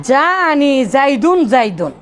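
slow, জাইদুন জাইদুন each stressed; emphatic repetition. Shown as a demonstration. Teacher showing emphasis by repeating জাইদুন. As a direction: drag out জাইদুন জাইদুন with weight. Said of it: "এক ধরনের জোর দিচ্ছে".

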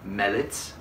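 mallets said as "mellets" with an E sound; deliberate "mellets" for mallets. Shown as a demonstration. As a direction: pronounce mellets, E not A, on purpose. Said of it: "I'll call them mellets".

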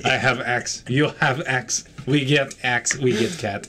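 put-on lightly done Russian accent; deadpan, with a hint of Russian accent; mock Russian accent. Player joking about the axe and the cat, mock Russian accent. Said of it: "We all speak with Russian accent".

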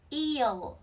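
"Eel" with a lengthened ee; long EE. Shown as a demonstration. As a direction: draw out the vowel in "Eel". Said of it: "Y dài một chút nhá". (kéo dài âm i trong "Eel")

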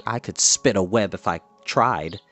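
a mild brag, pitched low; boasting. A narrator's reading. Pig bragging to the spider that he could spin, low mild boast.

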